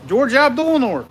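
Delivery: loud, high announcer call of "George Abdulnor"; announcing name. Acted. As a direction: boom the name out like a ring announcer.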